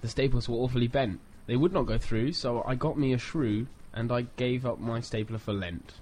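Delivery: sing-song limerick recital; bouncy limerick lilt. Shown as a demonstration. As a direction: read it with a bouncy rhythm. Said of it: "There's limericks about staplers".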